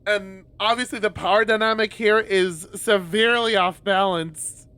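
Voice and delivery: high, rushed, flustered inner voice; racing thoughts. Retold or imitated. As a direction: babble it like a panicking mind. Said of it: "my mind's just like".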